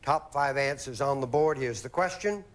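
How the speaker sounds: announcer reading the question; slow, formal host read; game show host. Acted. Host reads the survey question.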